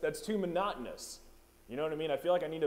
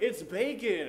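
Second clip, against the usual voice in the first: son's reveal; 8 semitones higher, 5 dB louder, slower than usual. Retold or imitated. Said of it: "the guy was like".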